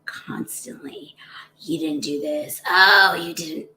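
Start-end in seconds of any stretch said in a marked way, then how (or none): 1.6-3.7 self-berating inner voice. Retold or imitated. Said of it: "So many of us".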